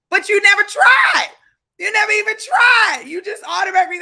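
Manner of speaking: loud, high rallying cry; fired-up shout. Real, not acted. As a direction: shout it at them to wake them up. Urging viewers to chase goals.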